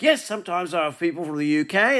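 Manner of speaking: quick mock British accent; a hint of put-on British, brisk. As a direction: lightly parrot a British accent back. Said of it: "my accent wasn't British".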